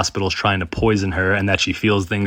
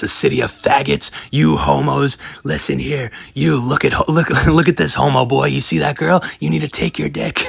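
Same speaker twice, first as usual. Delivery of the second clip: much higher, louder mock rant at the nurses; imitating a ranting patient; 6 semitones higher than usual. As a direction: ham up the yelling patient Justin. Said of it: "screaming ... as loud as he possibly could".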